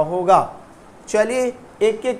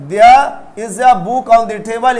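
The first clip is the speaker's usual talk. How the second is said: There is a book on the table, very slow; teacher reads slowly for the class; slow model sentence; 4 dB louder, much slower than usual. Shown as a demonstration. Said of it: "तो क्या होगा". (बहुत धीरे, पूरा वाक्य)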